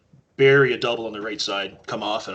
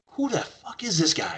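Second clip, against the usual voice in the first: much higher, laughing through the words; laughing disbelief; 11 semitones higher than usual. Retold or imitated. Teammate stunned by the newcomer's triple, laughing disbelief. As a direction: squeal it out in amused shock. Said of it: "he says".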